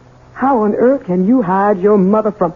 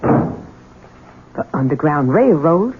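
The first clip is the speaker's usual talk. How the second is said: stunned disbelief; 3 semitones lower, much slower than usual. Acted. Shocked at the hiding place.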